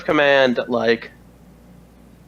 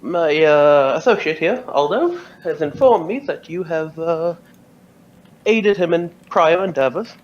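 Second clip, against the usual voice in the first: commanding officer voice; 4 semitones higher than usual. Acted. GM voicing Carberry, higher pitch.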